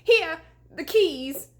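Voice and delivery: high, loud, slow frightened shout; panicked shout. A narrator's reading. Deputy giving up the keys, high panicked shout. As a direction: fling the words out in terror.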